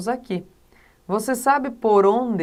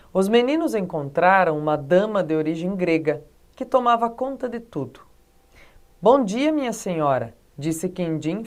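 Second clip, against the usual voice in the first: measured read-aloud with dramatic pauses; story reading. Acted. Teacher reading Monteiro Lobato to students, expressive storytelling. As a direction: read it out phrase by phrase, lightly voicing the dialogue.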